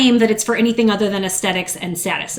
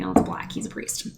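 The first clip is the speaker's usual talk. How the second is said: deadpan joke; 12 semitones lower, 6 dB quieter than usual. Retold or imitated. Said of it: "And I was like".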